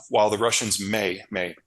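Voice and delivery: "may" repeated as a careful hedge; stress on MAY. Real, not acted. Analyst hedging on Russian involvement, stress on "may". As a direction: set "may" apart by saying it twice. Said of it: "emphasis on the word may".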